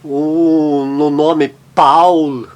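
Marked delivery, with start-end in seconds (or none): 1.8-2.5 Paul drawn out as "powl"; German AU sound. Shown as a demonstration. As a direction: stretch Paul with an open "ow" glide. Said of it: "sempre tem o fonema de au".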